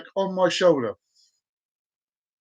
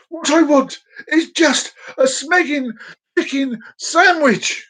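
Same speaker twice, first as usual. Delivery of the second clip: slow, emphatic outburst; exasperated rant; 5 semitones higher, slower than usual. Retold or imitated. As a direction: spell it out in frustration. Ranting about the order.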